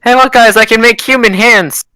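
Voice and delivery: cheeky sidekick showing off; snarky commentator. Acted. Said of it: "It's like a snarky commentator".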